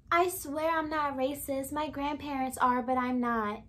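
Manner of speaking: lightly mimicked earnest denial; mild put-on voice, pitch settling toward the end; imitating Emily. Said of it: "this is how she talks".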